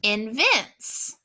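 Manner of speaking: "invents" with the final S drawn out and hissed; stretched final S. Shown as a demonstration. Teacher stretching the S suffix for students to hear. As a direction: hold the S at the end of "invents". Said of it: "use the S to show".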